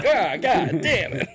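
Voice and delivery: mock crying. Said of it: "I just start crying".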